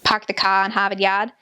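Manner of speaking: lightly imitated Boston accent. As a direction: drop the R's, Boston style. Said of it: "they really do talk like that".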